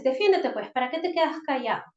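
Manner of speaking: impatient parent. Shown as a demonstration. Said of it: "otras frases frecuentes".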